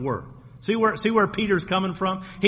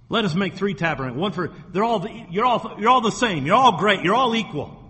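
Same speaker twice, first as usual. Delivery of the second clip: mock Peter; 3 semitones higher than usual. Mocking Peter's equalizing.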